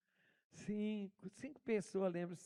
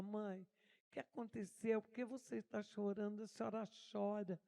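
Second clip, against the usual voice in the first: put-on child's worried question; 6 dB quieter than usual. Little girl asking crying mother.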